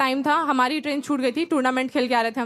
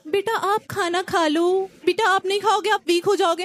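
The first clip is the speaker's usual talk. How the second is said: gentle coaxing; 4 semitones higher than usual. Retold or imitated. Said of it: "आप बोल के बात की जाती है".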